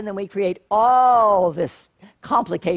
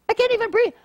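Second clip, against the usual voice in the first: mock exasperation; 12 semitones higher, much faster than usual. Mock helplessness about breathing.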